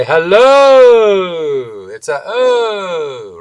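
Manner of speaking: hello with the O held long and high; stretched vowel. Shown as a demonstration. Vocal coach stretching the O in "Hello". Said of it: "I can say".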